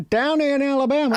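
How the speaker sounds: mock Southern drawl. Joking about how places stretch words: lightly mock Alabama drawl. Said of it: "Like Bama".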